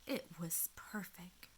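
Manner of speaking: soft, breathy whisper. Acted. Old woman savoring the silent dark, whispered. Peaceful quiet moment.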